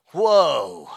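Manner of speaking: shocked whoa. Real, not acted. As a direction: react as if you were struck. Shock at church voting him out.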